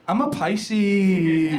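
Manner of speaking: put-on drawn-out, very slow girly proclamation; girlfriend's voice. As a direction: stretch it out like a dreamy girlfriend. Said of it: "All my girlfriend wants to do with astrology is".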